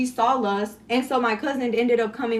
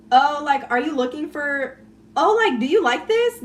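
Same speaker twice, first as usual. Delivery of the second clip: higher, louder fake-helpful question; mock teasing; 5 semitones higher, 4 dB louder than usual. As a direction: tease with an overeager offer. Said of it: "tease you and make fun of you".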